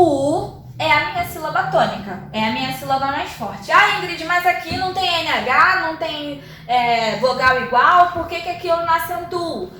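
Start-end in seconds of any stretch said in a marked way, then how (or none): 3.7-9.7 lightly voiced student objection, starting higher; puzzled student. Student questions teacher about the missing accent, lightly voiced puzzlement. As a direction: lightly play a student querying the rule.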